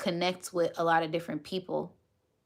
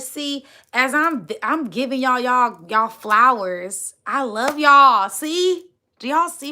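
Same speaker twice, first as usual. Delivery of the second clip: high, loud, slow emotional gushing; near-tears delight; overjoyed; 6 semitones higher, 10 dB louder than usual. Real, not acted. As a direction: pour out joyful thanks. Overjoyed thanking viewers.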